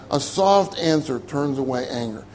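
quiet echo of the verse. Shown as a demonstration. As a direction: let it sink in quietly. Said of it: "listen to what Proverbs says".

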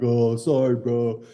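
high, fast, breezy apology; mock Dustin, laughing it off. Dustin apologizing to Poulter after hitting into water, breezy and fast. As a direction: shrug it off like it's nothing. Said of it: "He's like".

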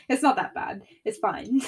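said through a laugh. Real, not acted. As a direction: brush it off with a giggle. Laughing off her own complaint.

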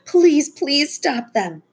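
slow, high, pleading plea; begging. A narrator's reading. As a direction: drag out the pleas, desperate. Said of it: "Becca begged".

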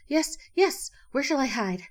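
high, loud, flustered squawk of words; ruffled excitement. A narrator's reading. Duck asks Rabbit for a hiding place, ruffled with excitement. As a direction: blurt it out in a high flurry. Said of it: "all ruffled with excitement".

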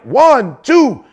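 mock referee count, rising high; counting him out. Telling the crowd, a referee counting, rising count. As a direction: count it like a ref over a fallen fighter. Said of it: "my man was like".

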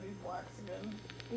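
drawn-out, slow teasing. Pretend. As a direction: stretch each word out to tease. Teasing repeat.

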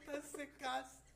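whispered joke. Real, not acted. Friend cracks a whispered joke about dry meat. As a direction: slip the joke in under your breath.

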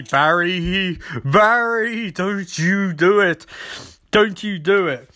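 slow, drawn-out fatherly warning; hammed-up plea to hold back; lightly voiced cautioning father figure; mock stern warning. Voicing Joe warning Barry.

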